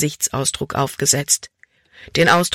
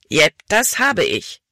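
slow, mildly irritated reply; annoyed; 2 semitones higher, slower than usual. A narrator's reading. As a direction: admit it with a touch of annoyance. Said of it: "Caleb klang ärgerlich". (leicht ärgerlich, langsam)

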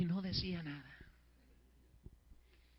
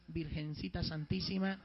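entre risas; 3 semitones lower, 5 dB louder than usual. Retold or imitated. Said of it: "Dije yo entre mí nomás".

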